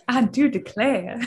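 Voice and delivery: light mock Southern belle exclamation. Asked by friend, playfully declares in mild Southern Belle voice. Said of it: "do your Southern Belle voice".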